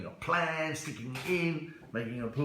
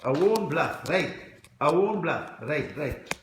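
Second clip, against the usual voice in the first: put-on Indian accent; comic Indian accent, punching the phrases; 4 dB louder, slower than usual. Shown as a demonstration. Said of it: "An Indian accent".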